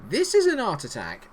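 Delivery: confident presenter declaration, falling; Neil Buchanan impression. Streamer repeats the Art Attack catchphrase as a statement. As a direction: announce it firmly like the TV host. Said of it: "Neil Buchanan's back in charge".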